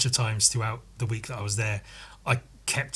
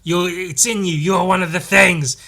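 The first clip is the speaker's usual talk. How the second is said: raised horror voice; 5 semitones higher, 6 dB louder than usual. Acted. Acting out a horror creature scene.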